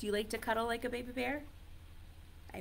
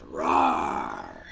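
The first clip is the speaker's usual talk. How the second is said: deep, loud, rasping roar; tiger roar; 5 dB louder than usual. Shown as a demonstration. Teacher matching tiger to its sound, deep roar. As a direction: roar low and strong. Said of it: "The tiger goes".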